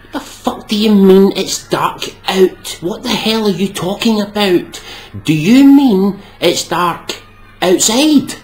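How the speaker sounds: incredulous, building to a high shouted finish; exasperated rant. Real, not acted. Ranting at Americans over dark out, building to an exasperated shout. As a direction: lose patience with the phrase.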